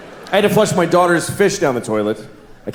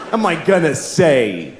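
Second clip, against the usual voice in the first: normal talking voice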